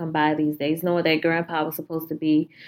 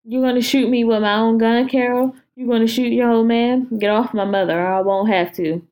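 put-on a bit higher and louder old-man threat; menacing Grandpa; 4 semitones higher, 3 dB louder than usual. Grandpa taunting Carol, louder and menacing. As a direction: taunt her with the gun.

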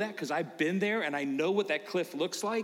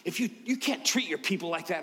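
whisper. Retold or imitated. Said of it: "She goes".

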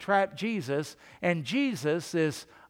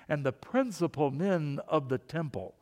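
mock snooty reading of a title; snotty voice; 2 semitones lower than usual. Shown as a demonstration. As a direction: say it with mild, put-on snottiness. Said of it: "say that with a snotty voice".

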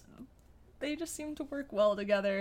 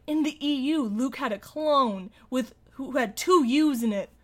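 mock eager pitch; 4 semitones higher, 6 dB louder than usual. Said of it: "Mark's suggestions were like".

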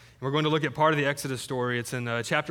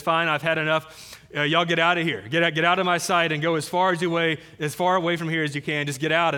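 a bit louder, exasperated mock order; fed-up Pharaoh; 3 dB louder than usual. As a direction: play Pharaoh throwing up his hands, lightly. Pharaoh fed up, sends people away.

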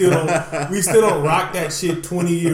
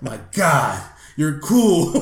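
put-on starstruck kid; 5 dB louder, much slower than usual. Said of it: "he's like".

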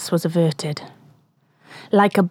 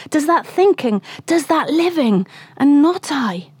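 higher, rising torment; anguished questioning; 3 semitones higher than usual. Acted. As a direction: demand answers from heaven. Ahab questioning fate and God.

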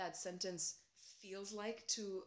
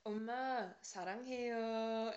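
cheeky; 2 semitones higher than usual. Retold or imitated. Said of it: "this sort of cheeky smile".

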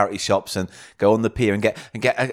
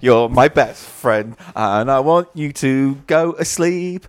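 tucking in at bedtime; slower than usual. Pretend. Slow mock lullaby to friend.

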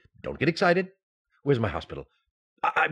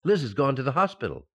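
alarmed; faster than usual. Acted. George panics at news.

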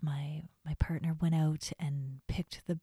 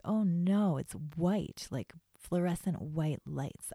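bratty complaint; 2 semitones higher, 3 dB louder, slower than usual. Retold or imitated. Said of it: "being a bit of a brat about it".

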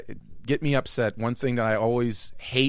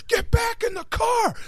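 sudden barked command, much higher, drawn out; cop yelling; slower than usual. Retold or imitated. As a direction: bark it like a cop who means it. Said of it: "the cop sits there and goes".

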